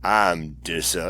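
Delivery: a wife catching herself mid-word, playful; teasing wife. Retold or imitated. Wife teasing him about his trigger, lightly voiced and playful.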